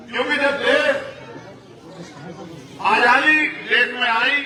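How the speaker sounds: projected rally oratory, pitched above the offhand asides; emphatic public address with pauses between phrases; political speech. Real, not acted. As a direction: drive each phrase out to the crowd. Addresses rally on voting rights.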